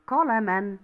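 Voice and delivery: قلما read as qalaman, ending in -an; tanween with fatha. Shown as a demonstration. Teacher showing the class three tanween types, قلما said as qalaman. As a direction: end قلما on a clearly sounded -an. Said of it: "يا بالفتح".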